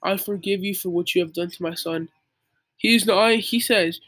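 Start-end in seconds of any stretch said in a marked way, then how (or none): 0.0-2.1 lightly imitated wise father, softer. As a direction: quietly retell a wise dad's forgiveness. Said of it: "in such a wise voice".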